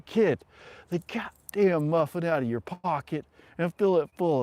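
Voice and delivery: imitated sergeant's dressing-down; mock angry sergeant. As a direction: bark it like a drill sergeant, amused. Retold sergeant barks order at recruit.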